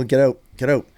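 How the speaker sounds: "out" leaning toward "oat"; Canadian "out". Retold or imitated. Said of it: "I will never sound Canadian".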